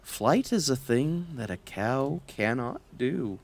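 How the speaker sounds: soft, resigned admission; sad. Acted. The cow admitting to Hop that cows can't fly, sad and soft. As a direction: let the dream go quietly. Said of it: "Clorinda said sadly".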